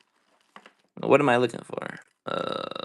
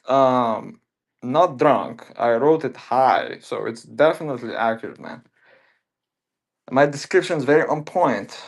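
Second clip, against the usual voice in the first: hyped salesman voice; 2 semitones higher than usual. Acted. Salesman pitch in a put-on voice.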